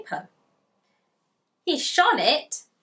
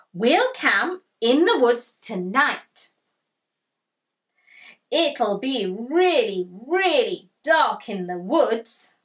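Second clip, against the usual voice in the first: louder, slow relish on really dark; excited Tiger; 4 dB louder than usual. Acted. Tiger planning a night camp in the woods, thrilled. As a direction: savour how dark it will be. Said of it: "shouted Tiger".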